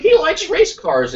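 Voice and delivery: high, slow sweet voice; sweet parent voice. Retold or imitated. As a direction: coo it to a child.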